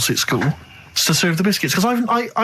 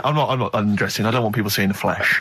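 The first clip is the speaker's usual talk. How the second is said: lower, prim mock voice of a modest man; lightly voiced Carl, a touch lower and primmer; imitating Carl; 7 semitones lower than usual. Host pictures Carl in a safari suit, mock prim voice. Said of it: "I imagine Carl sort of dressed in a suit".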